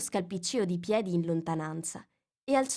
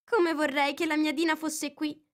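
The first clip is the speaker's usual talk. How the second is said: wistful aloud; 9 semitones higher than usual. A narrator's reading. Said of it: "disse Alice a voce alta".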